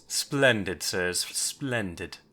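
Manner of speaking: lightly voiced dapper monocled villain; slow, trailing approval from a fancy gnoll. Monocled gnoll greeting the intruders, lightly put-on genteel voice. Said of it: "a gnoll in this fancy attire".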